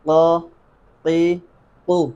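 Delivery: "قا، قی، قو" said one by one as separate syllables; "قا، قی، قو" as a teacher's model recitation; Qaf syllable drill. Shown as a demonstration. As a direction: drill "قا، قی، قو" with crisp pauses between. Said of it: "زبر، زیر اور پیش لگا کے اس کی مشق کریں".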